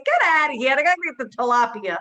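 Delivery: shooing the dinosaur man away from the fish; mock yell. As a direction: snap at him to move. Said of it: "I said".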